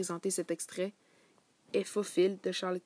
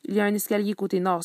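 louder, exasperated direction; irritated; 8 dB louder, faster than usual. Acted. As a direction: snap the way to the officer, fed up. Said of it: "s'énerva Boulard". (indication agacée, plus forte)

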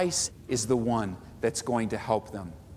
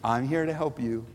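earnest offer, rising then settling; eager servant; 3 semitones higher than usual. Shown as a demonstration. Pastor voicing a servant reassuring Mary, earnest and eager. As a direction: offer yourself wholeheartedly. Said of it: "And you just want to serve".

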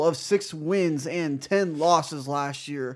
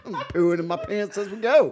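high-pitched joking through laughter; laughing; 4 semitones higher than usual. Real, not acted. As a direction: say it while cracking up.

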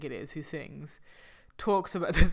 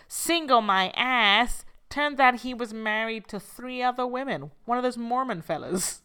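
imitated musical character; 4 semitones higher, 4 dB louder than usual. Co-host quoting the wronged woman from Chicago, lightly acted scorn. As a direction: lightly act out the scornful wife, pitched up. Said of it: "at some point she goes".

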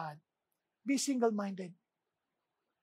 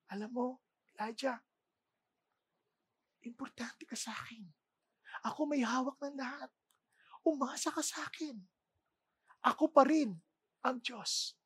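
soft whisper, much quieter; gentle whisper; 7 dB quieter than usual. Acted. God whispering to Elijah, soft tender whisper. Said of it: "God was in a gentle whisper".

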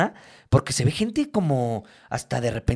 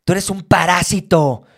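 accusing; 4 semitones higher, 5 dB louder, slower than usual. Retold or imitated. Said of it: "me dice".

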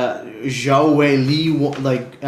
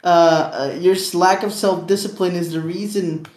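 hustle bro voice; 5 semitones higher than usual. Retold or imitated. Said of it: "they're always like".

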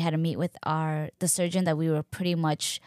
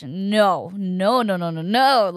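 louder, insistent retold refusal; mock panic; 6 dB louder, slower than usual. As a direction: act out protesting an oncoming contraction. Retold panic at a bad contraction.

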